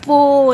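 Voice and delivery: loud "Pole" ending on an L; drawn-out "Pole" with its final L; final L sounded. Shown as a demonstration. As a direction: model "Pole" clearly, closing on the L sound. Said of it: "It ends with L sound".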